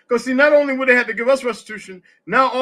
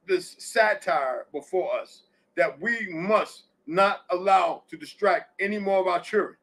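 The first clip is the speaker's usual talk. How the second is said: slow, low and grave; slow solemn warning; 5 semitones lower, 6 dB quieter than usual. Real, not acted. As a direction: warn them gravely.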